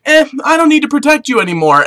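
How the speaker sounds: brisk, offhand brush-off; God. Acted. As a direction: shrug it off in a hurry. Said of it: "God was like".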